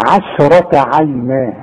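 عشرة with thin ayn and shin, heavy ra, slow; slow, careful Quran recitation of عشرة عينا; light ayn and shin. Shown as a demonstration. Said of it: "رقق لي العين، رقق لي الشين".

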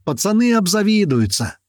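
high gleeful brag; gleeful yell. A narrator's reading. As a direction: crow to the boys. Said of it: "Не менее довольный орёт Котлета". (радостное хвастовство)

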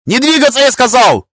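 squealed very high and loud; shrill squeal. A narrator's reading. Panicked master squeals at lord, very high. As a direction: shriek it in panic. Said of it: "взвизгнул Нарус".

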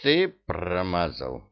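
успокаивающе. Acted. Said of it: "успокоил друга Кощей".

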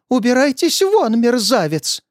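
put-on old teacher throwing out the scoundrel; high indignant shout; angry yell. A narrator's reading. Teacher drives him out.

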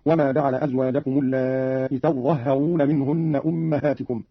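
slow "تظهرون" as tazzahharuna, no long aa; doubled za and ha. Shown as a demonstration. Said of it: "بفتح التاء وتشديد الظاء والهاء".

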